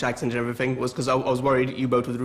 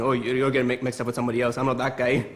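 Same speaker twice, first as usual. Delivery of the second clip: put-on Scottish accent. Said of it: "learn the Scottish accent".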